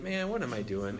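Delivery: low, soft self-reproach; convicted. Retold or imitated. Christian convicted by his own yelling, self-reproachful. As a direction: chide yourself quietly in retold remorse. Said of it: "I was just convicted by that".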